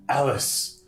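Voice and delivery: high, lightly melodramatic farewell; a hint of stagey last words; dying game character. Gamer voicing a dying man's farewell to Alice, mock-tragic. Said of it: "I guess we gotta do voices".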